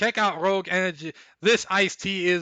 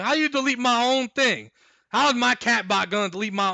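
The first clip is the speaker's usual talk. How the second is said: exasperated disbelief; 7 semitones higher, 4 dB louder than usual. Real, not acted. Streamer annoyed at his bot.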